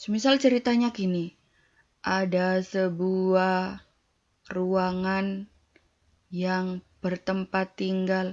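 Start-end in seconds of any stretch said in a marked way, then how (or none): 2.1-8.3 dull, flat, unvaried monotone drone, drawn out. Teaching intonation, an example story told in a flat monotone. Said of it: "Cerita yang monoton".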